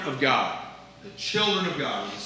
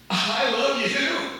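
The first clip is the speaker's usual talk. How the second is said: higher and slow, rising on you; questioning I love you; 6 semitones higher, 4 dB louder, much slower than usual. Shown as a demonstration. Pastor demonstrating tone to the church, slow rising question. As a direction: stretch it out, lift the end like a question. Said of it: "I can say".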